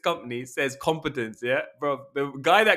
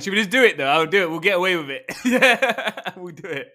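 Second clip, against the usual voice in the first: conspiratorial pep talk; 5 semitones higher, 4 dB louder than usual. Pretend. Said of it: "pep talk to rob a bank".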